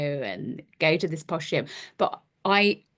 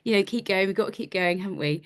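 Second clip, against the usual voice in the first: mock patronizing; faster than usual. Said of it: "said something really patronizing".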